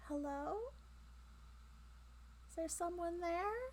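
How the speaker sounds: tiny, small, echoey, very high-pitched voice. Voicing an unseen speaker heard from behind the listeners, echoey tiny voice. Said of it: "an echoey kind of tiny voice".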